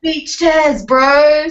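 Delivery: loud, high cartoon wail; high, stretched-out comic holler; cartoon whale. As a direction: call out like a stranded cartoon whale. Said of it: "But he'd go".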